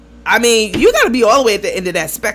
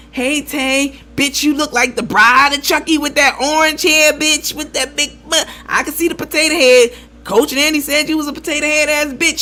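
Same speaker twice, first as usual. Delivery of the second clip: going in hard; 5 semitones higher than usual. Pretend. Hypothetical lady roasting a host, mock going in. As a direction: pretend tirade, pitched up. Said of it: "didn't even go in like that".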